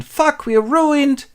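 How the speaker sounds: high, slow, drawn-out wail; wailing despair. Acted. Poor woman learns of ruin, mock wailing. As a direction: wail it out, hammed up.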